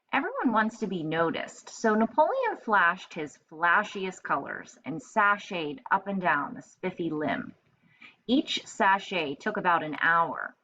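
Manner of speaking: lively read-aloud storytelling voice; story narration. A narrator's reading. Teacher reading a picture book to children, lively. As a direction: read it brightly to young kids.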